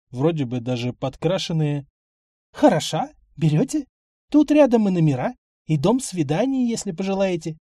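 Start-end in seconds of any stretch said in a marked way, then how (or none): 2.5-7.6 put-on sleazy old procuress, coaxing; lewd, sleazy tone. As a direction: offer her like cheap goods, leering. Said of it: "появились блудливые, пошлые нотки".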